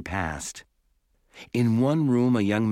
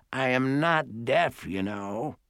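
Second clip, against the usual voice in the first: indignant great-aunt; 3 semitones higher, slower than usual. A narrator's reading. Great-aunt rebukes the nurse.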